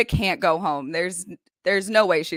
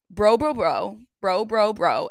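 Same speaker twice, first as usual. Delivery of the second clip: mock bro rant. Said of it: "couldn't get one single sentence out without having bro".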